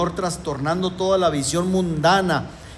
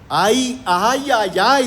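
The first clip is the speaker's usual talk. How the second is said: cries of woe; 4 semitones higher, 4 dB louder, much slower than usual. Retold or imitated. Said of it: "Levantó ayes de dolor".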